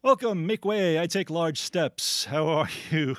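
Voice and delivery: pompous grand entrance, slowing on the last words; pompous Monopoly guy. Pretend. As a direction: play a puffed-up big shot making way for himself. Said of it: "It's the Monopoly guy".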